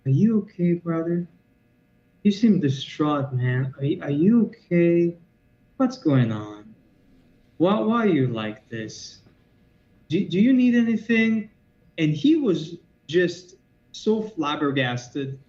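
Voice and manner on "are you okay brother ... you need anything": slow, gentle concern, imitating the cashier; calm caring voice. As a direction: retell her soothing the mugger, slowly. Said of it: "very calmly".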